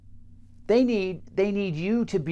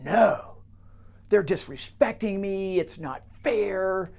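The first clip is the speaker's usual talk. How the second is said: aggrieved complaint; 4 semitones higher than usual. Acted. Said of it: "the guy says".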